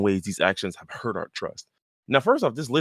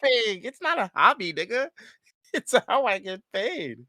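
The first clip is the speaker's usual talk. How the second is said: very high, strained mock protest; indignant retort; 10 semitones higher than usual. Voicing the surfer defending her job, exasperated. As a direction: squeal the protest as the wronged ex.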